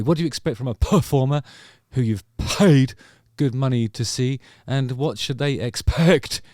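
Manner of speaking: exaggerated p-sounds, stretching "paid" and "expect"; breathy plosives in a singer's style. Imitating a singer's diction to viewers, with huffed p's in "performer". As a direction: puff a lot of "huh" through the p in "performer", "paid" and "expect". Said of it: "puts a lot of huh through his purrs".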